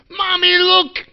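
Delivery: high, loud mock child's cry; little girl. Speaker retelling a girl spotting him, high loud child voice. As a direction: call out like an astonished little kid. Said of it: "She goes".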